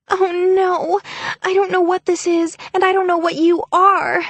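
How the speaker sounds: high, loud frantic outburst; panicked cry. Acted. Faking terror at the mermaids.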